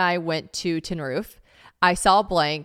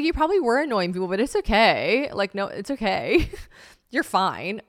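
reassuring; 3 semitones higher, 4 dB louder than usual. Pretend. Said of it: "I'm like".

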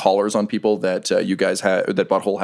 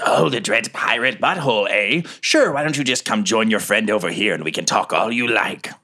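telepathic voice. Acted. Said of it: "another voice says".

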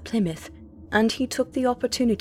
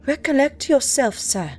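indignant; 5 semitones higher than usual. Acted. Diarist rebuking the captain, indignant. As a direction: put him firmly in his place. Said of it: "I cried indignantly".

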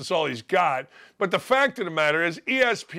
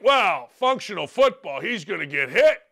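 put-on old-timer coach bluster, harumphing; old-school coach; 3 semitones higher than usual. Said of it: "those of you that are old like me think".

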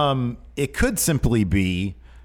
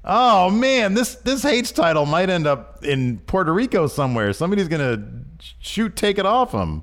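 announcing big news; 6 semitones higher than usual. Real, not acted. Continuing the match announcement.

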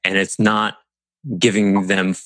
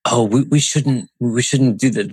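imitating fearful inner voice; 3 semitones higher than usual. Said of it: "the tones with which you said".

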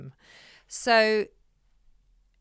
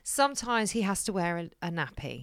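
hushed; 5 dB quieter than usual. Real, not acted. Embarrassing detail about the dog.

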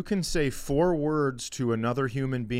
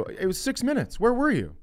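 annoyed at the driver; 10 semitones higher than usual. Retold or imitated. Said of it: "And I go".

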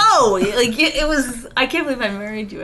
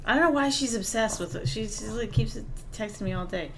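far from mic; 12 dB quieter than usual. Real, not acted. Wife speaks away from mic.

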